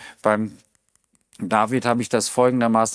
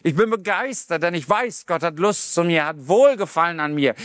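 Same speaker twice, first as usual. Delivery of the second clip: enthusiastic David; 3 semitones higher than usual. Acted. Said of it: "David springt über die Höhen und sagt".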